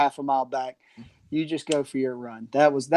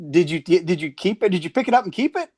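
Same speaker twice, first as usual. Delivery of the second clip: higher, eager quoted question; jealous excitement; 3 semitones higher, 3 dB louder than usual. Retold or imitated. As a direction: imitate a friend dying to hear more. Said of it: "immediately gets super jealous".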